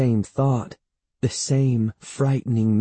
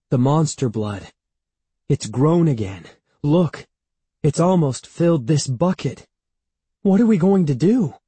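alarmed; 5 semitones higher, 4 dB louder than usual. A narrator's reading. Panicked boy shows growing monster blood.

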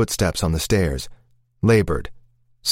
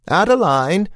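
calling out; 10 semitones higher, 3 dB louder than usual. A narrator's reading. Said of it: "Constance called again from downstairs".

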